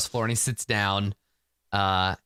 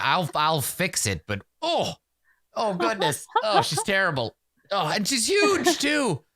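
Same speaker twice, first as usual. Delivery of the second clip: appalled sorcerer; 7 semitones higher than usual. Acted. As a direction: wail about the stench in a high voice. Sorcerer recoils from the stench.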